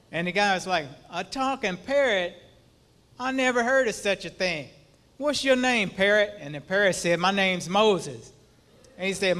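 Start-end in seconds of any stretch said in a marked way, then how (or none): 1.1-6.3 high, amazed disbelief; astonished. Acted. Astonished burglar in a joke. 7.2-8.3 slow, deliberate answer; deadpan parrot. Acted.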